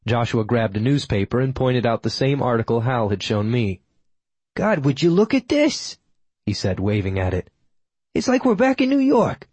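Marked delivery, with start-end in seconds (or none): 4.5-6.0 put-on older man voice. A narrator's reading. Old regular grumbles at newspaper. 8.1-9.5 put-on older man voice. A narrator's reading. Old regular grumbles at newspaper.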